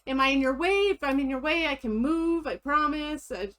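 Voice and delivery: sweet, eager retail worker; customer service voice. Retold or imitated. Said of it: "my customer service voice".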